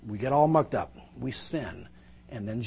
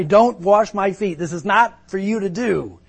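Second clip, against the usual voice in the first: pleading; 6 semitones higher, 10 dB louder than usual. Retold or imitated. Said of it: "I'd be thinking to myself".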